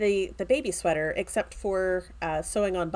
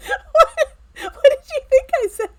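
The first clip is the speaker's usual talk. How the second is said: high, loud, laughing question; 12 dB louder than usual. Real, not acted. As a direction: laugh it out in disbelief. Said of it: "laughing at the misunderstanding".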